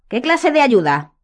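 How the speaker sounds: slow, tight restraint; keeping temper in check; controlled anger. A narrator's reading. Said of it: "repitió controlando la voz".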